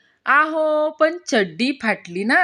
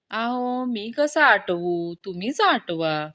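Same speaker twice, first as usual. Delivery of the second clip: lower, softer start, a touch coy; mildly bashful; 3 semitones lower, 3 dB quieter than usual. Acted. Doctor misunderstanding a pregnant patient, mildly bashful and slow. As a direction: act a little shy, taking it slowly. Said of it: "doctor आणखीन लाजून".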